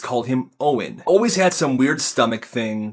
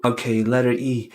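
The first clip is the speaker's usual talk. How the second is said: put-on kid thinking; 2 semitones lower than usual. Stephen thinking.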